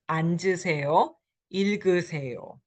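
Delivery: 앉으세요 and 읽으세요 with the second final consonant sounded into the next syllable; final consonant carried over. Shown as a demonstration. Teacher reads 앉으세요, 읽으세요 for learners, linking the consonant onward. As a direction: say "an-jeu-se-yo, il-geu-se-yo". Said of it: "now you have the second syllable that is".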